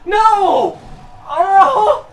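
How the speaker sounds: sudden high, loud yell at the screen; real shout. Real, not acted. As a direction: blurt it out in real alarm. Yelling at a video game.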